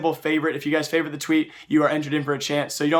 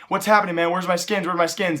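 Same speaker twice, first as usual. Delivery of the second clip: imitated freak-out; 2 semitones higher than usual. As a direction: imitate a chatter freaking out over lost skins. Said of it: "The guy's freaking out in the chat messages".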